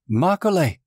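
high-pitched cry of a name, acted; acted high scream, held in volume. A narrator's reading. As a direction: call out in high alarm, short of a full scream. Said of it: "Hione screaming my name".

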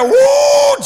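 high, drawn-out "woo" of mock amazement; amazed whoop. Disciples amazed at withered fig tree.

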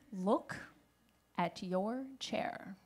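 softly voiced schoolgirl, slow and halting; quiet, reluctant telling; hushed reply. Girls' hushed reply, acted.

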